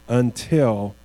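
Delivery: until set apart after a pause and held; stress on until. Shown as a demonstration. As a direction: lean on until, slowing before it. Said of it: "look at that word".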